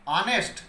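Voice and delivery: "ऑनेस्ट" with a vowel start and rising end; silent h. Shown as a demonstration. Teacher asking students how it is read, "ऑनेस्ट" opening on the vowel. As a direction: pronounce "ऑनेस्ट" with no h at the front. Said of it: "इसको क्या पढ़ रहे हैं".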